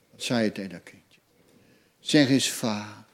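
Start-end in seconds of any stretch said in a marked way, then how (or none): 2.0-3.0 coaxing parent. Retold or imitated. Parent coaxing baby to speak.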